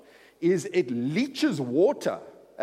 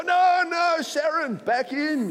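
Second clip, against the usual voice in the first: put-on high, loud Jewish grandpa accent; imitating a thick Jewish accent; 7 dB louder, slower than usual. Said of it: "he spoke with this thick Jewish accent".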